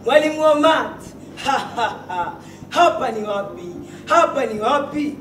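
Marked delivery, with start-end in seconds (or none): 1.4-2.3 softer, spoken "ha ha ha"; mock laugh. Poet voicing laughter after the refrain, mock laugh. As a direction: put on a measured, syllable-by-syllable laugh.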